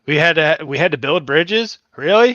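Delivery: exasperated mock astonishment; loud sarcastic disbelief. Real, not acted.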